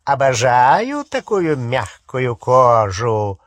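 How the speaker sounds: harsh, grating menace; grating werewolf voice. Acted. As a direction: grind the words out like a beast. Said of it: "знакомый до дрожи скрижащущий голос".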